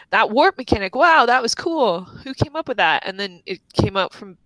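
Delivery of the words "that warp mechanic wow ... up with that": higher-pitched, impressed wow; retold amazement. Player recalls first hearing the warp mechanic, retold amazement. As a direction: relive being impressed, lifting the pitch.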